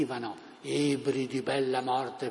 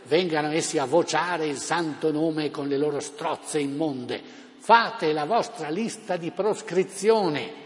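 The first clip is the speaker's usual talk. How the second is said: town crier; 3 dB louder than usual. Retold or imitated. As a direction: whip up the crowd from a balcony. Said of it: "È lui, D'Annunzio".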